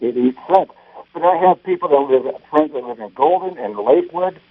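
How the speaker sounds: muffled phone line; tin can sound. Real, not acted. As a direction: voice boxed in a trash can. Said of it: "sounds like he's in a trash can".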